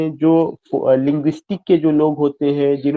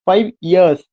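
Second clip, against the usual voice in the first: "ईयर्स" given more force than "फाइव"; stress on YEARS; 3 semitones higher, 4 dB louder than usual. Shown as a demonstration. Teacher checking students get the point, "ईयर्स" stressed. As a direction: keep "फाइव" light and lean into "ईयर्स". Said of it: "जो ईयर्स है यहाँ पे".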